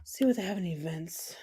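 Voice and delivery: quick whisper to herself. Real, not acted. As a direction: breathe it out, no voice. Muttering to herself while browsing.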